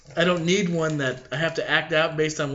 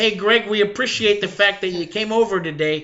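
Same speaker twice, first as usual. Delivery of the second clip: higher-pitched Pittsburgh accent demo; Pennsylvania accent; 5 semitones higher, 5 dB louder than usual. Shown as a demonstration. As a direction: do a Pittsburgh local greeting a guest. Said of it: "what a Pennsylania accent sounds like".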